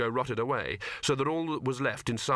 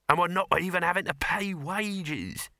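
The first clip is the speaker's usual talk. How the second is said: higher, eager showman voice; Dibbler voice; 7 semitones higher than usual. Acted. Dibbler to Sol, gleeful about free labour. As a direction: play the delighted huckster.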